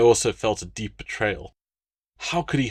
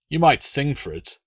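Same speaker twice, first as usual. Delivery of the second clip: suggested; 5 semitones higher than usual. Acted. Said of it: "Latius suggested".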